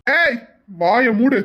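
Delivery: sharp yell to shut her up; angry shout. Acted. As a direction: cut her off hard. Grandson shouts grandmother down.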